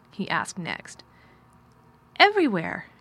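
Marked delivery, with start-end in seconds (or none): 2.2-2.9 put-on higher, louder startled child voice; mildly gasped, sudden answer. A narrator's reading. Girl answering where she plays, a touch of a gasp. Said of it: "gasped Mary".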